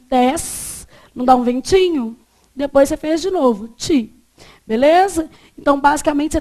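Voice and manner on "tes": tes com o S soprado; soft blown S. Shown as a demonstration. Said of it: "que é um sopradinho". (tes com sopradinho)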